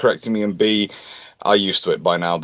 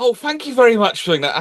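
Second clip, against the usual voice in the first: very high, gushing, overly polite tone; 13 semitones higher than usual. Imagining how a polite man would act: imitating Michael, very polite. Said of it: "I can just imagine him going".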